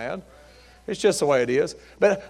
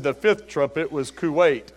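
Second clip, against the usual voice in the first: funereal solemnity. Retold or imitated. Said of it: "I feel like I'm in a funeral home".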